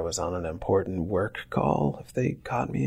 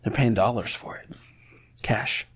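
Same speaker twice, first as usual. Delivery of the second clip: whispering. Pretend. Conspiratorial aside about cash.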